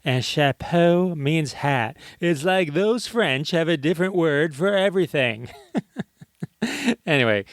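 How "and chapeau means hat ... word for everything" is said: comedian impression. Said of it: "excuse my horrible impression".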